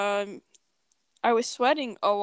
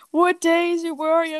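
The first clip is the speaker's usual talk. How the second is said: put-on high, louder urgent questions to a fainted girl; urgent rescuers; 7 semitones higher, 5 dB louder than usual. Bystanders checking on the girl who fainted, urgent and high. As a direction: fire off the questions, pitched up. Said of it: "They're like".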